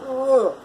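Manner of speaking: long falling "ugh" of disgust; disgusted groan. Real, not acted. Welder recalling his nastiest customer, exasperated groan.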